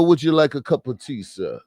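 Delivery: quick, lightly put-on British accent, a teasing posh Englishman; mock British accent.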